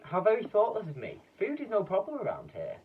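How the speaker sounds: high, loud apologetic fluster; fussing Duke. Acted. Duke flustered at his own thoughtlessness, high and loud. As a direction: fuss over your guests. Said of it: "cried the Duke".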